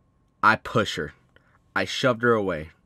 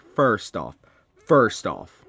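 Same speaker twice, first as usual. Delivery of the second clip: indignant retort; 7 dB louder, much slower than usual. Retold or imitated. Retold argument, cutting her off.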